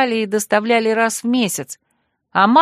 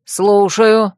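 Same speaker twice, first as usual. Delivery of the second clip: shout; 5 dB louder than usual. A narrator's reading. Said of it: "крикнул".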